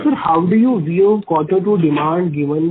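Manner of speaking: speaking up. Real, not acted. Analyst repeats question for executive who can't hear, speaking up. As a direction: speak up a little for a poor line. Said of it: "you speak slightly loudly".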